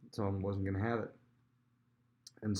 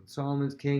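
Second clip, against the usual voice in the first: proclaiming; 5 semitones higher, 5 dB louder than usual. Retold or imitated. Crowd proclaiming new king.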